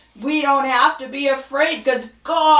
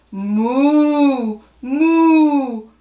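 cow moo. Pretend. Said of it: "will you moo with me?".

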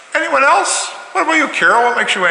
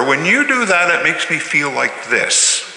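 calm I-statement; 3 semitones higher than usual. Shown as a demonstration. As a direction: speak calmly to stop the fight.

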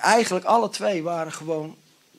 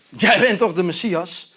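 sarcastic; 3 semitones higher, 4 dB louder than usual. Shown as a demonstration. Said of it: "heel sarcastisch, eh, gezegd".

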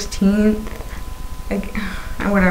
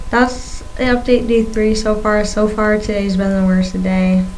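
talking around a swollen tongue; lisping with a fresh tongue piercing; tongue piercing speech. Real, not acted. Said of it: "having a hard time talking today".

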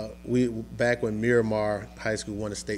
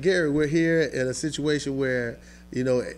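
higher and louder, scolding; retold scolding of a player, raised; upset coach; 5 semitones higher, 4 dB louder than usual. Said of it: "I got upset with him".

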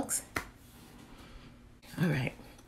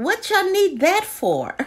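incredulous jab; 12 semitones higher, 4 dB louder, slower than usual. Real, not acted. Mocking disbelief at Yankee.

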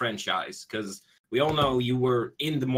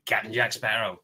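Jack Sparrow voice. Pretend. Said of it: "be like".

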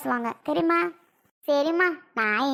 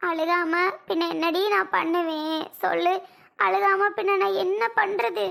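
tearful lament; 4 semitones higher than usual. Acted. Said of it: "அழுகுற?".

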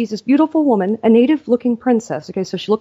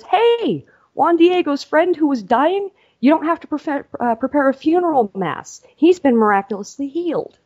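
much higher, excited announcement; excited news; 6 semitones higher than usual. Retold or imitated. Messenger tells the bishop the friend is healed, high and thrilled. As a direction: burst in with miracle news.

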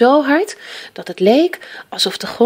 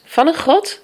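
raised, high-pitched call; 8 semitones higher than usual. A narrator's reading. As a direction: call it out excitedly. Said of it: "riep grootvader".

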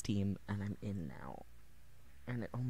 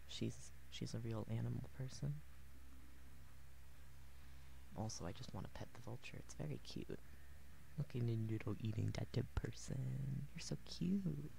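vocal fry; 4 dB quieter than usual. Real, not acted. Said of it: "Sorry again for the vocal fry".

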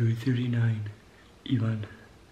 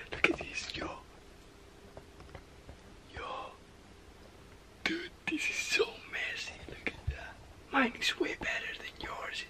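hushed whisper so he won't wake; breathy unvoiced whisper, barely audible; whispering while hiding; 6 dB quieter than usual. Real, not acted. Hiding in closet, friend asleep.

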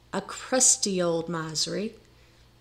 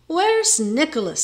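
loud, high demand; calling out; 8 semitones higher, 5 dB louder than usual. A narrator's reading. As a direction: carpenter asking sharply after his lodger. Carpenter calls for missing lodger.

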